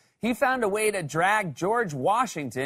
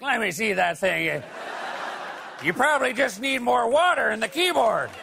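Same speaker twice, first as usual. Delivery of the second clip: higher-pitched grandpa voice; 4 semitones higher than usual. Acted. Grandpa to grandchild with a frozen computer, put-on old-man voice. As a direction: play a grandpa confidently offering computer help. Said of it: "your grandpa was like".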